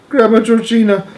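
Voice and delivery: high loud calling out; boy crying out to his grandmother; joyful cry. A narrator's reading. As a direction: call out to her in shock. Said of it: "cried Charlie".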